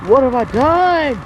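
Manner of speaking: anguished cry. Acted. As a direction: cry it out in horror. After injuring opponent.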